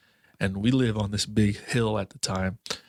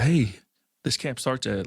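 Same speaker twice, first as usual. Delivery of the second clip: mild mock yell, higher pitch; retold yelling; 4 semitones higher than usual. Older brother yelling at him about camp, a mild retold yell. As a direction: call out sharply on the first word, half-hearted. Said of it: "yelling at him".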